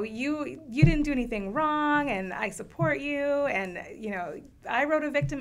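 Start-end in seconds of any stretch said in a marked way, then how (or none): 0.0-3.2 put-on higher, louder reassuring teen; voicing the teens. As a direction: reassure them brightly and loudly.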